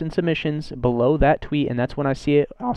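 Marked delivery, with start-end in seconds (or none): 2.6-2.7 voice cracking. Real, not acted. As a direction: voice cracks mid-sentence, fast. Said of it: "Fuck voice crack".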